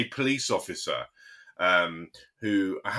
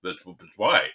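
lightly voiced, stammering policeman, pitched down; put-on caller voice; 5 semitones lower than usual. Police officer refused help by the call handler, mock baffled voice. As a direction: imitate a baffled caller, stumbling over the words. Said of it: "he didn't sound like that at all. I don't know why I made him sound like that".

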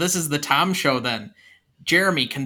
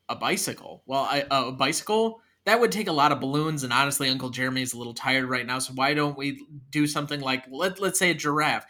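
tired, reluctant uncle; 2 semitones lower, 3 dB quieter than usual. Acted. Uncle Jeremy talks a kid down, tired and hesitant. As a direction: hedge gently, stalling the kid.

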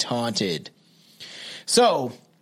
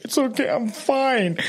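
light higher brush-off; 7 semitones higher than usual. Retold or imitated.

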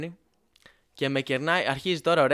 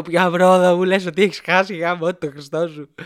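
re-enacted yell at a friend, much louder; exasperated shout; 2 semitones higher, 8 dB louder than usual. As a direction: blow up at him in mock outrage. Acted outburst at friend over exam.

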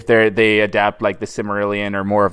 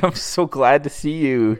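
higher-pitched pretend gladness; mock gushing greeting; 5 semitones higher than usual. Pretending Mildred is glad of the hug, mock gushing. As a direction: play at being thrilled to see her.

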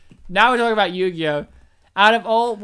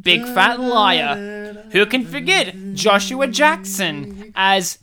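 tribute announcer; 4 dB louder than usual. Acted. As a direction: announce names like a tribute reel. In memoriam style tribute reading.

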